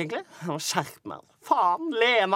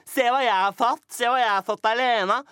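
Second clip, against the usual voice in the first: bragging mother; 4 semitones higher than usual. Retold or imitated. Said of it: "Skrøy til naboene".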